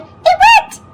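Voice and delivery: high, bright surprise; delighted. A narrator's reading. To the listening child, a high delighted "it worked". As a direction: pop it up like good news. Every try succeeds.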